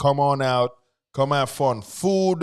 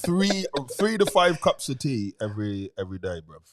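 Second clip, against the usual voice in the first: British accent. Shown as a demonstration. Guest telling co-hosts about tea habit, British accent. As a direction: chat like a British lad. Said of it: "talk British for a little bit".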